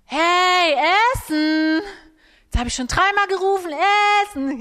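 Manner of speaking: loud, high, rushed shout; impatient yelling. Retold or imitated. Mother yelling at child deaf to dinner, impatient shout. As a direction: yell like you've called three times already.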